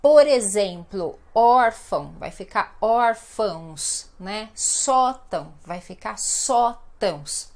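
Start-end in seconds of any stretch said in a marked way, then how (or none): 1.3-2.1 "órfão" with a loud, firm ÓR; stress on first syllable. Shown as a demonstration. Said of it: "a penúltima sílaba mais forte". 4.5-5.5 slow "Sótão" with a strong SÓ; stress on first syllable. Shown as a demonstration. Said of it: "a penúltima sílaba mais forte".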